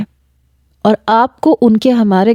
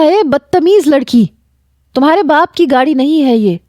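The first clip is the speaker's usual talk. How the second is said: put-on raised scolding of a rude girl who slammed the door; angry scolding; 6 semitones higher than usual. He scolds her door slam.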